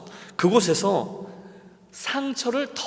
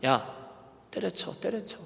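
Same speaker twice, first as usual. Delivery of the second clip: hushed voice of inner temptation; Satan's insinuating whisper; 6 dB quieter than usual. Acted. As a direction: softly urge them to quit, like Satan whispering inside. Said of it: "사탄은 제 안에서 속삭입니다".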